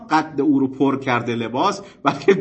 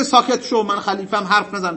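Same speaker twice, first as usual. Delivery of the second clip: higher-pitched mock command to hush; briskly acted rebuke, voice raised; imitated silencing ruler; 5 semitones higher than usual. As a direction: shut the objector up, pulling rank. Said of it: "اونم نمیگه".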